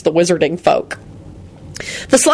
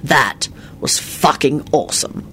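fervent; 4 semitones lower, 4 dB quieter, slower than usual. A narrator's reading. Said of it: "told William fervently".

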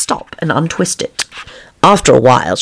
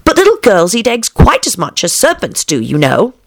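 high, reasoning Alice voice; earnest young Alice; 7 semitones higher than usual. Acted. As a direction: explain as an earnest little girl.

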